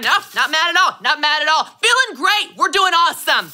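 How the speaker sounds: mock chipper denial while slamming dishes; fake cheerful denial. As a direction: deny it through a big fake smile. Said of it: "You start violently scrubbing even more".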